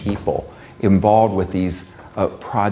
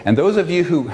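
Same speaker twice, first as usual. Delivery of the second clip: riled up; 5 semitones higher than usual. Real, not acted. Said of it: "I'm getting riled up here".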